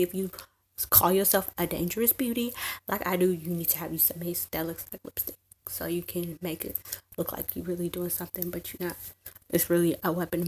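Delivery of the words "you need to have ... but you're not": hushed secret whisper. Real, not acted. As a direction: let them in on a secret, softly. Secret tip, sly aside.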